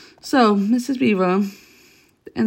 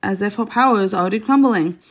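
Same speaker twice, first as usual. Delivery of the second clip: delighted. Acted. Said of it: "almost dancing with delight".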